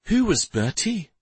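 gently asked, lifted pitch; gentle tone. A narrator's reading. Shari asking the mayor about Bertie, gently. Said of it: "in a gentle tone".

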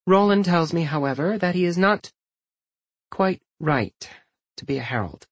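composed, with measured pauses; continue evenly, pausing between phrases; calm. A narrator's reading. Wife telling husband their son's future, calm. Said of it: "she continued calmly".

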